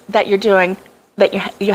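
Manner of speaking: tripping over the words; stuttering. Real, not acted. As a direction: stumble and restart mid-word. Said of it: "I'm stuttering".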